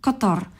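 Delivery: Qatar said KUT-ar with the stress up front; first-syllable stress. Shown as a demonstration. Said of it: "So it's first syllable stress".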